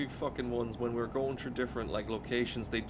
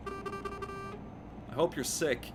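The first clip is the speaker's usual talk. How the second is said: slow, drawn-out and higher, spitting out a mock curse; drawn-out mock curse, pitched higher; 6 semitones higher, much slower than usual. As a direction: stretch every word like a hex. Spiteful curse at a bus rider.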